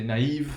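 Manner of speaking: "naïve" in two syllables, "na-EEV"; two-syllable French word. Shown as a demonstration. Teacher contrasting French with English, "naïve" said with two separate vowels. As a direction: give each vowel in "naïve" its own syllable. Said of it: "that's gonna be a two-syllable word".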